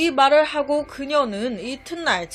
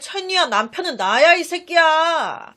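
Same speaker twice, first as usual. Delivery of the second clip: angry retort; 3 semitones higher, 3 dB louder than usual. Retold or imitated. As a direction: snap back like a man insulted. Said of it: "서로 막 화를 내면서". (남편이라 주장하는 상대에게 욕하며 화내는 반박, 크게)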